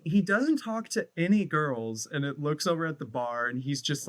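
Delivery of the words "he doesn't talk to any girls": mock impression of a singer. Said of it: "She's like".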